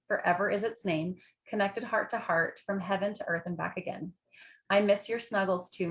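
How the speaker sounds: measured recital of verse; understated rhymed-verse reading, softening at line ends; poem reading. Real, not acted. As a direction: read a heartfelt poem aloud, line by line. Reads out her written poem.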